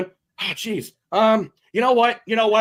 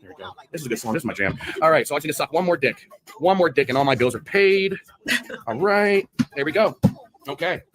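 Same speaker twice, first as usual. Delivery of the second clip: mock skit voice; 6 semitones lower than usual. Acted skit of the woman.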